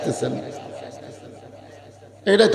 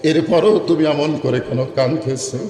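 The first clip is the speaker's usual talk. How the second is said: sermon storytelling. A narrator's reading. Preacher telling Omar's story to the crowd, melodic sermon storytelling.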